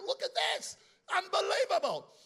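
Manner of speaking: a hushed "look at this" bursting into a high, loud "Unbelievable"; amazed whisper to exclamation. Pretend. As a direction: start in a whisper, then explode in wonder. God marvelling at creation.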